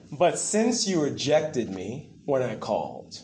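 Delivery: solemn preacher reading the warning; scripture reading. Acted.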